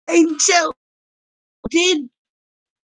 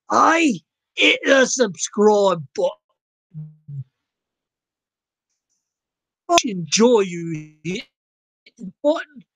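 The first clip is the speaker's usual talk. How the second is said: put-on Aussie accent. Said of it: "I don't know why I'm doing this accent".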